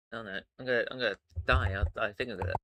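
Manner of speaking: choking, water down the wrong pipe; struggling to talk while choking. Real, not acted. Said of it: "water went down the wrong pipe".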